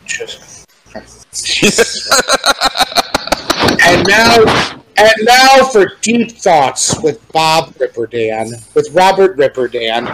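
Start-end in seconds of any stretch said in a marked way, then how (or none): 3.8-10.1 announcer voice. Pretend. Parody TV announcer intro.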